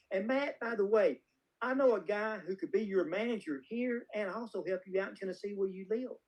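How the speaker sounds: lightly voiced little old lady, turning helpful; Renee Valente. Old producer offering a young actor a manager, lightly imitated. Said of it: "this is exactly how she said it".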